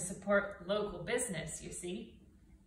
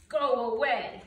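firm, louder go away; stern; 7 dB louder than usual. Acted. Grumpy bear shooing the goslings, stern and louder. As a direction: send them off sternly. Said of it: "Bruce was very stern".

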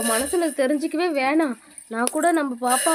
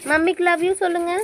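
coaxing; 4 semitones higher, 5 dB louder than usual. Real, not acted. Mother coaxing toddler.

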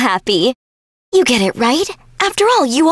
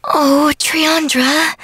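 slow, drawn-out, lower-pitched musing; pondering; 4 semitones lower, much slower than usual. Acted. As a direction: stretch it out as you think. Friend searches for what to say.

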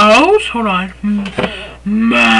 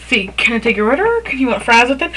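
upselling cashier; 3 dB quieter, much faster than usual. Shown as a demonstration. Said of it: "Repeat after me".

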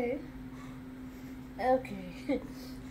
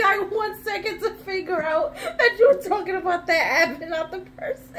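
laughing. Real, not acted. Laughing while explaining.

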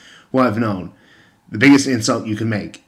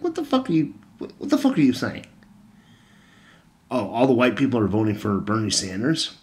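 incredulous. Retold or imitated. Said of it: "I'm like".

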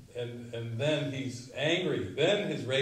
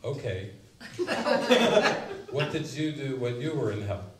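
calm voice; 6 dB louder than usual. Retold or imitated. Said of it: "calm voice from the other end".

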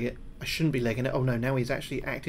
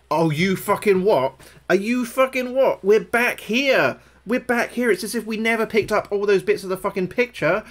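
incredulous high rant, stretched words; outraged disbelief; 7 semitones higher, 7 dB louder than usual. Real, not acted. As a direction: protest loudly at the game. Game lost collected picture pieces.

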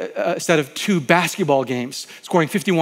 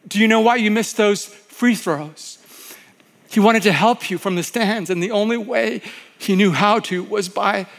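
a lightly voiced friend, eager and higher; earnest friend; 5 semitones higher than usual. Pastor retelling a friend advising Jim, lightly voiced and eager. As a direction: give the advice like a caring friend, lifted and urgent.

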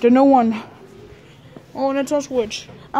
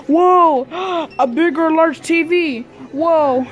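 gasp, then a higher, excited whoa; amazed gasp; 3 semitones higher, much slower than usual. Real, not acted. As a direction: sound amazed at the big TV. Kid seeing a big TV.

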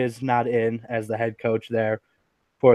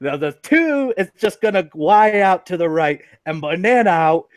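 Jon Gruden; 4 semitones higher than usual. Acted. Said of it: "my terrible impression of Jon Gruden".

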